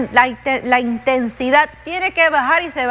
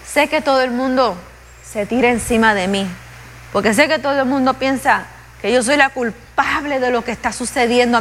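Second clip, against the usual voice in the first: spoken prayer. Acted. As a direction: pour out the heart to God in prayer. Prays aloud before congregation.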